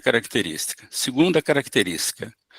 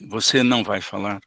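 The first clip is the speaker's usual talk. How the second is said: calm mirroring question; 2 semitones lower than usual. Shown as a demonstration. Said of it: "Vou repetir a frase".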